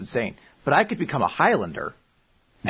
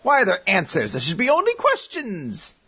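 Riddler voice; 6 semitones higher than usual. Retold or imitated. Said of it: "the Riddler".

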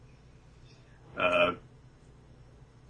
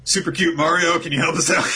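higher, sing-song call for help; cutesy calling-out; 9 semitones higher than usual. Retold or imitated. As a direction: call out sweetly, half joking. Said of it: "All right".

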